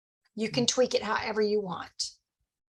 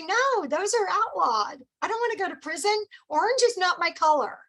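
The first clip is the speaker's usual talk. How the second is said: playful joking answer; 6 semitones higher than usual. Pretend. Answering a pyramid question, higher playful mock reply. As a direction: brush off the pyramid question with a light joke. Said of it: "You say".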